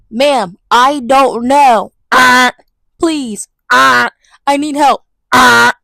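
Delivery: slow pleading broken by loud "ah"s; hammed-up desperate plea; mock desperate begging. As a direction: beg for help, hammed up. Begging the program amid buzzes.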